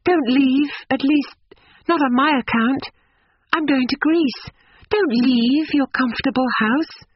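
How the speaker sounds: put-on high-pitched young woman pleading kindly; sympathetic, urgent girl's voice; kind plea. A narrator's reading. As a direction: urge him earnestly to stay. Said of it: "her voice had been kind".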